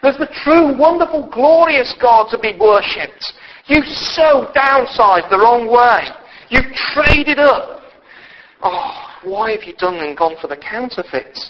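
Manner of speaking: Paul scolding the crowd, sharp then sorrowful; angry appeal. Retold or imitated. Preacher voicing Paul pleading with idol worshippers, angry then sorrowful. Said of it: "And Paul was angry and saying".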